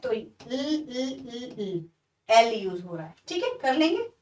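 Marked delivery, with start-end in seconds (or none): 0.1-1.8 "ल" repeated as a bare consonant, softly; isolated L sound. Shown as a demonstration. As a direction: hum out a detached "ल" sound. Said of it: "sound है आई का ... sorry एल का".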